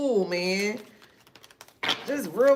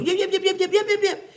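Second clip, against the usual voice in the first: yapping provoker; 9 semitones higher, 3 dB louder, faster than usual. Retold or imitated. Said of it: "trying to get you".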